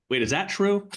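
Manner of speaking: high, sudden double-take; mock realization. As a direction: catch yourself mid-thought. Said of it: "you're like".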